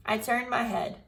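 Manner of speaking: put-on lively storybook read-aloud for kids; reading to children. A narrator's reading. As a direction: tell it like a chapter book to the class. Teacher reads Junie B story aloud.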